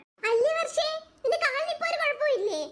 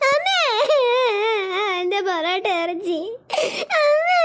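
put-on crying; slower than usual. Child wails to mother for parotta and meat. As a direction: sob for the parotta. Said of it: "പിള്ളേരെ ഒന്ന് കരയാതെ".

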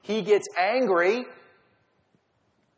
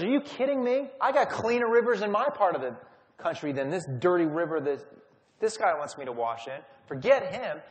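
mock rage. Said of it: "he flies off into a rage".

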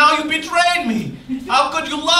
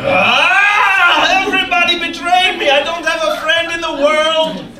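angry outburst; 2 semitones higher than usual. Acted. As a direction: rage at the whole world. Johnny rages at betrayal.

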